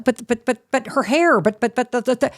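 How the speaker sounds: a frazzled mom stammering over hair and shoes; sputtering mom. Retold or imitated. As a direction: sputter out objections.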